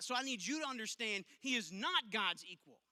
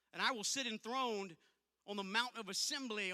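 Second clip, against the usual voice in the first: scripture reading. Acted. Preacher reading Isaiah to the congregation, solemn. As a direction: read the prophecy with weight.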